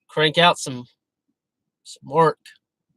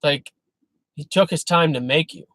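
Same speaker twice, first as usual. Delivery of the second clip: normal talking voice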